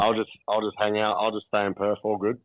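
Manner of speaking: bow out without any excitement; understated, left-out mumbled opt-out; unenthusiastic. Real, not acted. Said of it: "he sounds so pumped for that".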